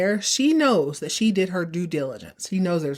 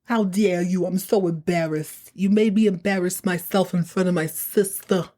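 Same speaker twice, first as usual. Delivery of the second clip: put-on a light New York accent, half-hearted; mock New York accent, lightly put on. Podcaster mocking Sid's outburst to Karen in a light New York accent. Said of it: "His New York accent comes out".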